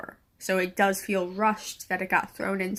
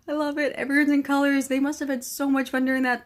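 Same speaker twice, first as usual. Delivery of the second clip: higher and louder, bubbling over; excited gushing; 5 semitones higher, 4 dB louder than usual. Real, not acted. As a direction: gush like a thrilled fan. Gushing about tourist scene.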